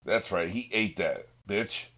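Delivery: normal talking voice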